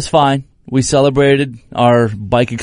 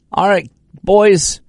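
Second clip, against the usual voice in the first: put-on calling to the kids; 9 semitones higher than usual. Dad calling to the boys.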